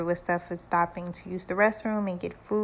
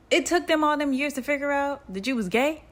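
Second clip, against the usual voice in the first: higher-pitched mock disbelief; incredulous; 7 semitones higher, 4 dB louder, faster than usual. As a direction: retell a dad's astonished question, pitched up. Dad's acted incredulous reply on phone.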